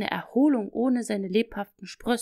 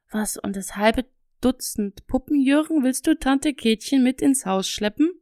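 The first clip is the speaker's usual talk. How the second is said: trying not to laugh; 4 semitones higher, 5 dB louder than usual. A narrator's reading. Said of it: "versuchte vergeblich ernst zu bleiben".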